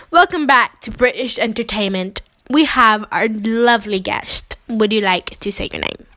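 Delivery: lightly played British TV presenter; a hint of mock British host; British show host. Host introduces lovely guest, British show-host voice.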